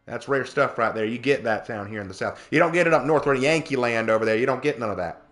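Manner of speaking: put-on down-home South Carolina accent; Southern accent. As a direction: rant lightly in folksy Southern dialect. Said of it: "do please only talk like that".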